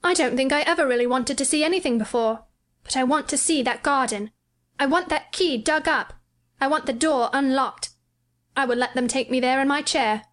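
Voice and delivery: wanting the garden badly; a touch of excited boy; mild excitement. A narrator's reading. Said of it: "He had become quite excited".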